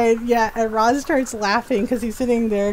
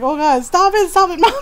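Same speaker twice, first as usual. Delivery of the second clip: loud, higher mock pleading; embarrassed protest; 7 semitones higher, 6 dB louder than usual. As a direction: imitate a mortified daughter yelling at mom. Retold daughter's embarrassed protest.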